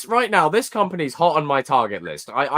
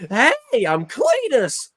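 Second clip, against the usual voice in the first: higher, slow mocking redneck; 8 semitones higher, much slower than usual. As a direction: ham up Carnage as a hick.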